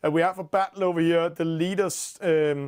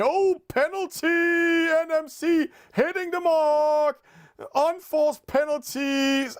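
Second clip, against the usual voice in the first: high, drawn-out excited call; excited commentary; 9 semitones higher, slower than usual. Real, not acted. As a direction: shout out the surprise penalty. Sudden penalty at the mark.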